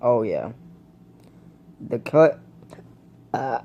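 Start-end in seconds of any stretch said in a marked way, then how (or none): 1.8-3.6 talking through hiccups; hiccuping between words. Real, not acted. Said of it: "sorry, I got the hiccups".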